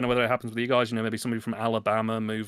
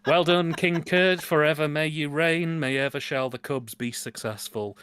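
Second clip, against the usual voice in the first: mock royal proclamation; 3 semitones higher than usual. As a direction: bless the king with playful pomp. Mock blessing of King Kurt.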